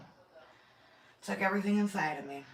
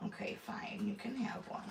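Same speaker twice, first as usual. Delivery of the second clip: soft give-in; 12 dB quieter than usual. Real, not acted. Gives in to the dog.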